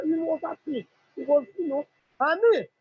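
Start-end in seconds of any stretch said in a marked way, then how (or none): 2.2-2.7 delighted cry. Retold or imitated. Mother echoing her son's joy at bathing in cold water, slow loud cry. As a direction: stretch it out like a happy shout.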